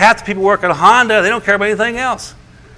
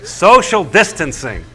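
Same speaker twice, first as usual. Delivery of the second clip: slow mocking; slower than usual. Shown as a demonstration. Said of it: "Don't you love that one?".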